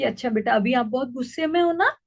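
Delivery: calm her down tenderly; loving, soothing. Shown as a demonstration. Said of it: "फिर हमने प्यार से कह दिया कि". (गुस्साए बच्चे को प्यार से शांत करती माँ)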